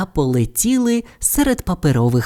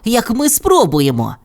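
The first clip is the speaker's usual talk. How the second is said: Bob; 9 semitones higher than usual. A narrator's reading. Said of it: "запропонував Боб".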